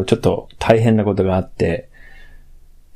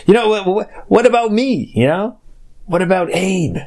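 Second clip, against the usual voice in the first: mock pleading; 8 semitones higher, faster than usual. Pleading outburst at cohost.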